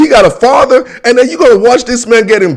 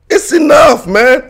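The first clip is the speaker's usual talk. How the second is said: higher, raised fed-up shout; fed-up outburst; 6 semitones higher, slower than usual. Real, not acted. Podcaster fed up with the NFL schedule, raised outburst. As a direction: blurt out that you've had enough.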